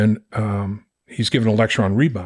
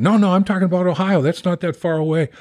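higher, amused coach correction; imitating big man correction; 8 semitones higher than usual. Embry correcting the boy about Ohio, light higher voice. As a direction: set him straight, half laughing.

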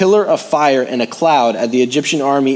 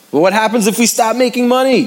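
anxious, much higher pleading question; higher, fretting what-if; worried believer; 10 semitones higher, 3 dB louder than usual. Acted. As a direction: voice the fearful doubter.

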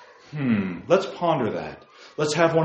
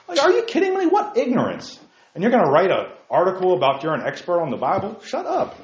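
indignant outburst; 5 semitones higher than usual. Real, not acted. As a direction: blow up at the writer. Outraged at article writer.

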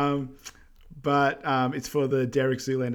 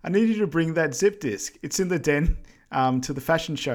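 raised, louder mock phone call to the wife; imitating a grumpy husband phoning his wife; Maury on the phone; 5 semitones higher, 3 dB louder than usual. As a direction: bark orders down the line, half-hammed. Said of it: "He goes".

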